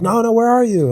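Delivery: high-pitched mock girlish voice; imitated girl. Imitating girls on the phone.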